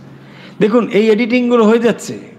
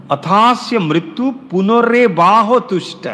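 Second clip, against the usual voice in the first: Sanskrit recitation; 3 semitones higher, slower than usual. Shown as a demonstration.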